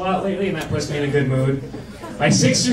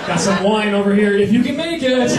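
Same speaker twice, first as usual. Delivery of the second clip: hammed-up host. Acting host with lava floor.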